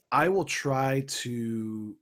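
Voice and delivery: slow, then sinking into a breathy whisper; overwhelmed, words dying away; fading to a whisper. Real, not acted. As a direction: trail off in dismay. Player overwhelmed, trails into whisper.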